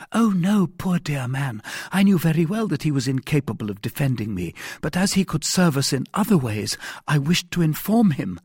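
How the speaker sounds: high-pitched woman explaining herself; earnest heroine. A narrator's reading. Wife explains her poor husband to her rescuer, earnest. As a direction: start high and loud on the denial, stay lifted.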